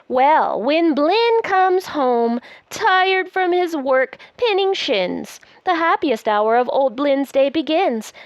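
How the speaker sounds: lively, sing-song picture-book reading; reading to children. Acted. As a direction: read it aloud like a bedtime book. Reads the book aloud to child.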